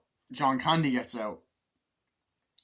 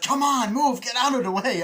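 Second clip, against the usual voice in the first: loud, high yell to clear the way; high, forceful mock shouting; impatient shout; 13 semitones higher, 11 dB louder than usual. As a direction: holler it as an acted order. Acts man shouting at someone blocking.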